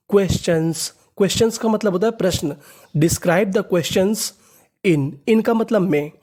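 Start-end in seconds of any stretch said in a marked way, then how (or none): 3.0-5.1 slow reading. Shown as a demonstration. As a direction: Describe the questions read very slowly, word by word. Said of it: "तो पूरा sentence देखते हैं". (धीमे-धीमे पढ़ना)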